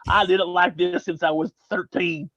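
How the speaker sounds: put-on Southern accent. Shown as a demonstration. Voicing someone who refuses to change, Southern accent. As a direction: mimic a stubborn local in a Southern accent. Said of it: "gonna get a Southern accent".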